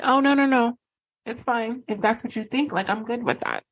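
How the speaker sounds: high, airy, fake-breezy brush-off; mock nonchalance. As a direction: brush them off with fake cheer, pitched high. Silent treatment, feigned indifference.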